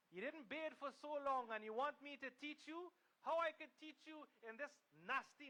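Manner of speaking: a touch of a taunting monk; scornful monk insult. Acted. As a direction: provoke him with contempt.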